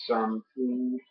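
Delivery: "something" said softly with the French "th"; gentle French accent on "something"; genuine French "something". Shown as a demonstration. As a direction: say "something" the way a real French speaker does. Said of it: "genuinely, a French person would say".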